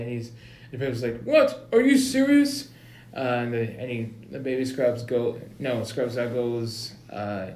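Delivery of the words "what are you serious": much higher disbelieving cry; shocked principal. Acted. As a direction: gasp it out in disbelief.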